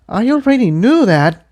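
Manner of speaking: put-on high, firm young mare; Tiptoe's mare voice. A narrator's reading. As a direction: say it without looking up.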